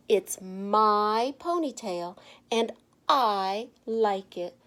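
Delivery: slow, deliberate, a little proud; slow defiant reply. Acted. Stephanie to the teasing kids, slow and defiant. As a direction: take your time, owning every word.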